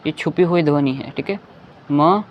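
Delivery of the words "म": "म" with its hidden short a; "म" sounded out alone, clearly; inherent vowel. Shown as a demonstration. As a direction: say "म" as consonant plus short अ. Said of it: "म के साथ अ लगा हुआ है".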